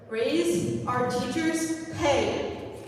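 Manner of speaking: each word punched out, loud and slow; slow emphatic demand. Real, not acted. Student demands raise at board.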